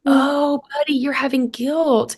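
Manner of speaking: put-on gently name the child's feeling; sympathetic mother. Mother helping her son name guilt, sympathetic.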